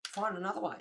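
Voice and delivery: restrained take on a curt dismissal; bitchy retold brush-off. Streamer recalling being bitchy to a pusher, understated brush-off. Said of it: "I was a bit of a bitch".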